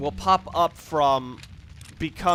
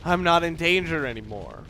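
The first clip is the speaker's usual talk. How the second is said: mock relief; 6 dB louder than usual. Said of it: "It's like".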